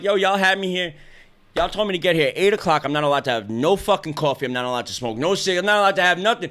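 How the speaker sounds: mildly heated retelling of an argument; retold indignant complaint. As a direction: list grievances at the surgeon, pitch lifting. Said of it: "I was fighting with my fucking surgeon".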